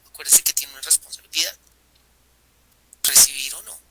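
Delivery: hushed unvoiced whisper, leaning in. Real, not acted. Preacher to congregation, urging them to remember: whispered. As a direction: whisper it like a secret warning. Preacher stressing responsibility to listeners.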